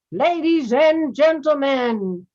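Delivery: slow, announcing like a ringmaster. Shown as a demonstration. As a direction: call it out to the big top. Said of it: "It's kind of like a ringmaster voice".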